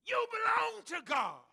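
loud, high, driving preacher's cry; fervent preaching. Real, not acted. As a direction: preach it with full fire. Preaching at full force.

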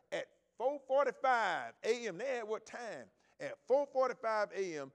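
loud stressed military time; emphatic order recital. Acted. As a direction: bark out the duty time.

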